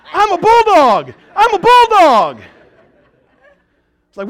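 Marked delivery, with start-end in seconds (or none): 0.1-2.4 loud, high, slow bulldog growl-boast; mock tough-guy boast. Pastor playing the friend's bulldog, loud and slow. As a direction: puff up like the hired muscle. Pastor hyping himself as muscle.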